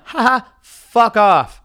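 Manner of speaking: loud, slow, scornful ha-ha brush-off; mocking forced laugh into a drawn-out retort; fake laugh. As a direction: fake a laugh, then tell them off. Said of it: "that fucking fake laugh".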